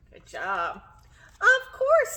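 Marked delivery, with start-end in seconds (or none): 1.4-2.1 high, loud perky reply; Hare voice. Acted. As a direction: chirp it out as the hare. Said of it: "says Hare".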